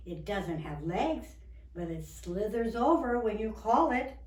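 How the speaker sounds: lightly voiced salesman pitching pets; a touch of storybook sales patter; eager shelter keeper. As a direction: talk up each animal with lifted, punchy endings.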